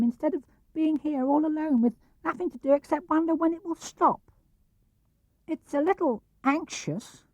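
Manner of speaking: high, small worried piglet voice; a tiny animal fretting alone in the rain; timid high piglet; anxious Piglet. A narrator's reading. Piglet voiced in read story.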